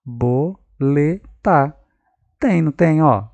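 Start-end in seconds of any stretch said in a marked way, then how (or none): 0.1-1.8 Borboleta spoken slowly, bor-bo-le-ta; sounding out syllables. Shown as a demonstration. Teacher testing a child's spelling, slowly sounded. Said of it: "Será que tem alguma noção de sílaba?".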